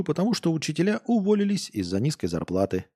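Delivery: ordinary talk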